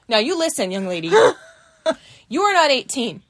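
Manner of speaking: lightly voiced bossy nurse laying down the law; stern nurse. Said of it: "like, the Trunchbull".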